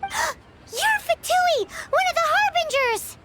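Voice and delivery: alarmed realization after a sharp gasp; shocked gasp. Acted. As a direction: catch your breath as it dawns on you. Sudden realization who he is.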